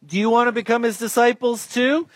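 high-pitched, cheeky challenge; acted courageous comeback; bold retort. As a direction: push back boldly at the questioners. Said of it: "getting more and more courageous and bold".

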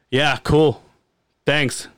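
mock-underwhelmed, low and brief; unimpressed reply. New dad answering his friend's gushing congratulations, underwhelmed. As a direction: give a lukewarm thanks, pitch dropping.

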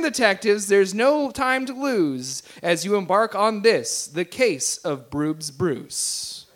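lilting verse, slowing to the close; poem reading. Acted. Game master reads Broob's mystery poem to the players, verse reading. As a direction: read out the rhyme, drawing out the last line.

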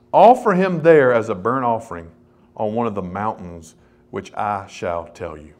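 lightly solemn recitation, loud start falling low; scripture reading. Acted. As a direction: read the command out, then let it sink. Reads God's command from scripture.

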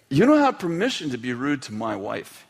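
firm retold reprimand; stern father. Father to son who was rude to mom, stern. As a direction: lay down the rule to a son.

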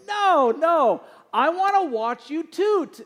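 put-on high, loud child's insistence; a little girl pleading to be understood; imitating small daughter. Daughter insisting to dad in car, high and loud. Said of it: "She goes".

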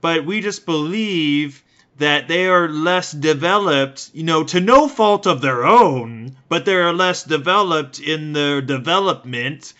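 high, loud, slow patronizing denial; Afrikaner apologist voice. Retold or imitated. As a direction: play a smug old-school Afrikaner insisting he's not racist. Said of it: "you'd have these Dutch people that are like".

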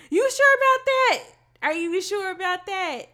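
high, loud mocking "you sure"; sarcastic challenge. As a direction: taunt him with doubt. Mock challenge to the villain.

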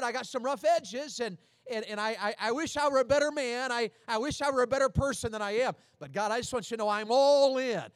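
earnest, rising prayer of surrender; sincere prayer. Pretend. Believer praying to God, earnest and sincere. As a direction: pray it like you mean every word.

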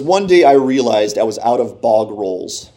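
reading in a light, put-on British English accent; a self-mocking attempt at a British English accent. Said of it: "Can you tell I'm trying to do an English accent?".

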